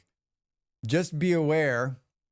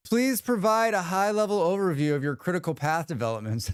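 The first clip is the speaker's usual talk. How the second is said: stiff, formal email-bot read; a hint of a robotic corporate assistant. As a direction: recite it like a polite corporate chatbot. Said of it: "Corporate A I bot has entered the chat".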